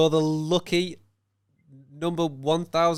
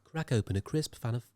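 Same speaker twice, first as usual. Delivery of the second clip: mock voice-over, slightly soft; advert voice; 4 dB quieter than usual. Co-host pretending to advertise his drink, understated advert voice. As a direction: lightly play the advert announcer. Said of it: "that sounds like an advert".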